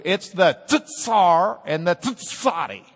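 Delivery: "tsar" and "tsadi" said slowly with a clear ts at the start; Hebrew pronunciation. Shown as a demonstration. Teacher showing the class the Hebrew ts sound. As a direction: sound out the ts in "tsadi", slow and careful. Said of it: "if you want to be Hebrew".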